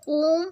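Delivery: ओम with the ओ held long and slow; long drawn vowel. Shown as a demonstration. Teacher shows students ओम held long. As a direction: stretch out ओम like a chant. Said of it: "ओम काफ़ी लंबा खींचता है".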